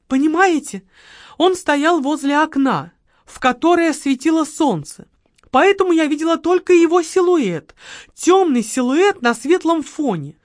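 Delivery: overacted eyewitness; dramatic widow. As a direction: paint the silhouette dramatically. Margarita describing the killer.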